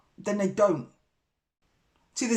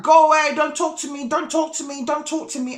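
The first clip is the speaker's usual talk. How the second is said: higher, louder opening then insistent repeats; imitated angry brush-off; 7 semitones higher, 6 dB louder than usual. Neighbour refusing to talk when confronted, imitated agitation. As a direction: shoo someone off in a high mock protest.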